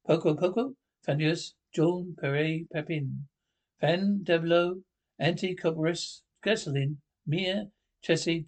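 put-on gibberish Latin TV presenter accent; mock Mediterranean accent. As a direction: parody a southern European broadcast accent. Mock foreign television patter.

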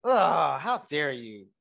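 playfully affronted, with a disgusted groan; mock indignation. Date offended that she has money, mock indignation. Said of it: "he was pissed that she was rich".

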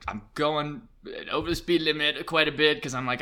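ordinary talk

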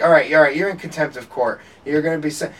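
half-shouted courtroom warning; mock screaming judge. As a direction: imitate a judge losing patience. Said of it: "screaming at each other".

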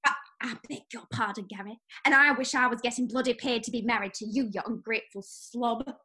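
a put-on English accent, nagging wife; British accent. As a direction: play an annoyed English housewife with a light British accent. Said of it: "I like your accent".

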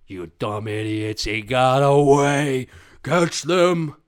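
slow, loud, climbing to a roar; furious villain boss. Acted. Jaguar boss sending henchmen after the escapee, roaring villain voice. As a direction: bellow orders as a cartoon villain. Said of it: "The boss is like the jaguar".

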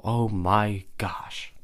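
slow, near-whispered amazement; hushed awe. Real, not acted. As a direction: let it out softly, stunned. Moved by the story's ending.

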